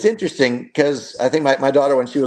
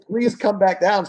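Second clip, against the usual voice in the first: high, slow, begging dad voice; pleading; 7 semitones higher than usual. Retold or imitated. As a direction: coax her down gently. Dad pleading with daughter on platform.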